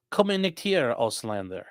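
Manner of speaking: attempted German coming out Russian-accented; Russian-sounding accent. Streamer reading a viewer's German phrase, unintended Russian accent. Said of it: "Why did I say that with, like, a Russian accent?".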